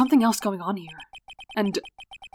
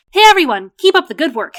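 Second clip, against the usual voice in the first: loud, high hail to a crowd; cheery call-out; 8 semitones higher, 11 dB louder than usual. Acted. Rookie greets future coworkers at crime scene, cheery call-out. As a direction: call out brightly to coworkers across the lot.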